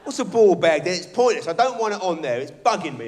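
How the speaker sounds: put-on loud kid complaint; whining kid. Son complains about his ball bag to dad, loud kid whine. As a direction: whine like a fed-up little boy.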